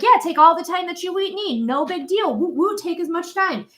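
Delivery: a hint of a laid-back friend; mock easygoing person. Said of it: "Anyone that's like".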